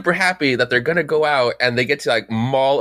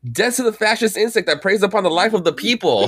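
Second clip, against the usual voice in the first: half-voiced imitation of a screamed slogan; retold battle cry; 6 semitones higher than usual. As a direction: mimic a rallying cry without really yelling. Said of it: "one of them screaming".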